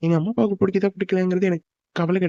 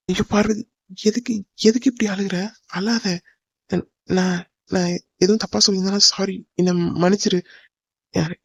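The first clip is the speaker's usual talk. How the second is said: pleading, halting and slightly raised; anxious consoling; 2 semitones higher than usual. Acted. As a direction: beg a crying loved one to stop, drawing out the words. Boyfriend consoling his crying girlfriend. (பதறி, கெஞ்சி ஆறுதல் சொல்லும் குரல்)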